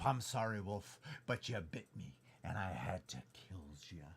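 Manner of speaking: quiet half-British apology to a fallen wolf; British accent. Acted. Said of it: "Link is not British".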